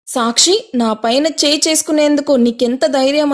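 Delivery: trembling with rage; furious. Acted. Monalisa rages at Sakshi after the slap, furious. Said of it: "అంటూ కోపంతో ఊగిపోయింది".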